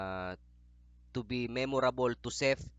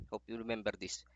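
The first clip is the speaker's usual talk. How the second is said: softer; 5 dB quieter, faster than usual. Real, not acted. Softer repeat of the wish.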